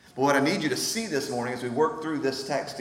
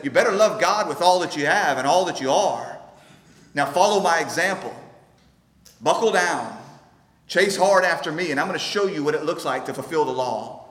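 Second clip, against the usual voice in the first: mock moralist Jesus; 4 dB louder than usual. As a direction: bark orders like a stern moral coach. Jesus voiced as mere moralist.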